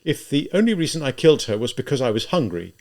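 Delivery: mildly weighted words, pitched a little up on "hungry"; earnest, deliberate emphasis through "I was hungry"; emphasizing each word. A narrator's reading. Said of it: "emphasizing each word".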